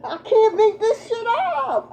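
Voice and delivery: laughing through the words, high; can't hold back a laugh; amused laugh at the reading; real laughter. Real, not acted. Laughs at the cards.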